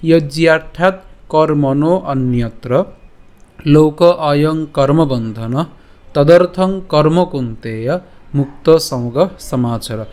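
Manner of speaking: slow, deliberate Sanskrit verse recital; slow recitation again. Shown as a demonstration. Teacher repeating the verse slowly for students. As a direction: spell out each word of the verse slowly. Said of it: "আমি আবার বলছি".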